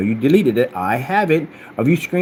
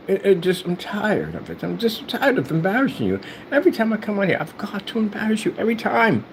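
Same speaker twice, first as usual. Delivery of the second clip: mock weariness; 8 semitones higher than usual. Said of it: "I'm tired of embarrassing you".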